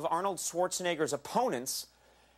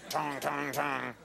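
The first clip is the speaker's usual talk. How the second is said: imitated gavel knocks; much slower than usual. Imitating a gavel after passing bill.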